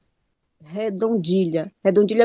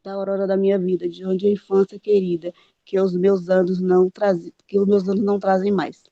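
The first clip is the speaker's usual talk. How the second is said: reading the verse with its metre; poem recitation; faster than usual. Shown as a demonstration. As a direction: recite the redondilha line. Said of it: "Eu vou citar aqui um pouquinho". (declamando o poema)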